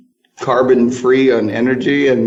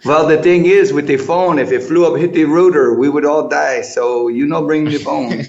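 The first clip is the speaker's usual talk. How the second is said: imitating a German guide in a Spanish accent, a bit higher; playful put-on Spanish accent, mildly raised; 4 semitones higher than usual. Gyrocopter guide warning tourists about phones, in a mock Spanish accent. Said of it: "I gave him a Spanish accent".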